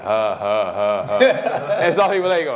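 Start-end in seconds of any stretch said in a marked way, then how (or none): 0.0-1.2 put-on slow, deliberate old-dad chuckle; imitated old man's laugh. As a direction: imitate an elderly father's spaced-out laugh. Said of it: "his laugh when he got older was like".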